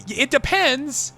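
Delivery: drawn out slowly, a mock cop stalling; slow hedge. Mocking a cop at the polls, drawn out slowly. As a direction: stretch "depends" like a cop buying time.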